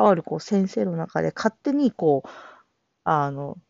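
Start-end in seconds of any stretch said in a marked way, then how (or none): none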